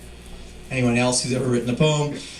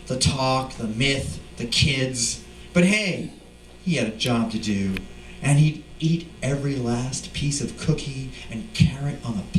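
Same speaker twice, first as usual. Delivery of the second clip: lively, rhythmic poem reading; poetry reading. Acted. Poet reading his Santa poem to a crowd, lively. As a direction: ride the rhythm and the rhymes, playful.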